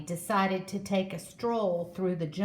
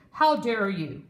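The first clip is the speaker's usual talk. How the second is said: louder, offended outburst; indignant; 4 dB louder than usual. Acted. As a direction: scold the vine indignantly. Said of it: "with an angry kick".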